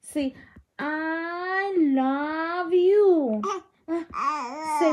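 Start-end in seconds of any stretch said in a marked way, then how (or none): 0.8-3.4 extremely slow, stretched-out endearment; doting, slow-motion coo. Real, not acted. Coaxing baby to say it.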